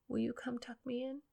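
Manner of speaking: soft whisper, barely there; whispered request. Retold or imitated. Son calling to his mother at bedtime in a whisper. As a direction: ask shyly in a whisper. Child asking mum at bedtime.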